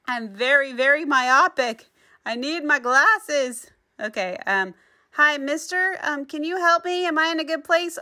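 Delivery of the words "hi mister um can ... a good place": high, meek little voice; timid polite ask. Acted. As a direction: ask the stranger shyly for help. Speaking politely to a tree.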